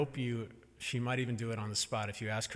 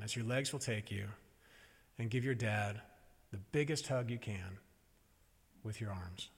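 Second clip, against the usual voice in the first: softer, coaxing parent voice; gentle coaxing; 3 dB quieter, faster than usual. Retold or imitated. Mother explains the running hug game to toddler, gentle coaxing.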